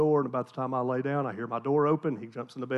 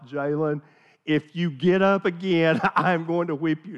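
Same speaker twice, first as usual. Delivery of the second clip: exasperated threat; 4 dB louder than usual. Retold or imitated. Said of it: "I'm like".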